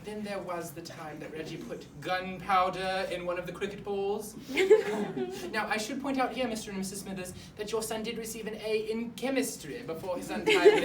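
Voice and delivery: lightly put-on formal headmaster breaking bad news; stiff, wordy school principal; awkward headmaster. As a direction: play a pompous headmaster explaining himself to parents. Headmaster resumes explanation to parents.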